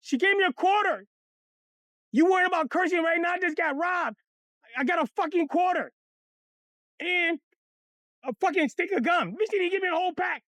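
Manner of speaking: high, whiny rambling complaint; mock crying. Boy tells mama what happened, mock crying. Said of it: "And Pelly out there crying".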